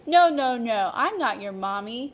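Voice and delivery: loud insistent no, no, no. Acted. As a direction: protest loudly, then settle. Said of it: "he said again, even louder".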